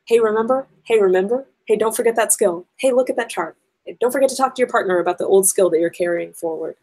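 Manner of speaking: lightly acted teacher nudging students, slightly lifted; a touch of a teacher's recurring prompt; consistent reminder voice. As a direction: repeat quick, steady reminders, each starting like a gentle prompt. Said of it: "a kind of just consistent voice saying".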